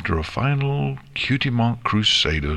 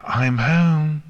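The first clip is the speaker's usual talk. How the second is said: high-pitched mild story shout; excited shout; 10 semitones higher than usual. A narrator's reading. Nix arrives home to Twilight, mildly shouted. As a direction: call out high, without much volume. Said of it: "she shouted".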